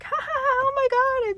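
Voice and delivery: high mock cackle of partying girls; mocking the drunk laughter at one AM; imitating loud laughter. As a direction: ham up the roommates' laughing. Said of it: "I'm hearing laughing".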